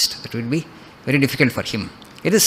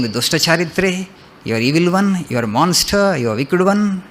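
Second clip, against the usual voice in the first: mild scolding; 4 semitones higher than usual. Retold or imitated. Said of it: "he is scolding her".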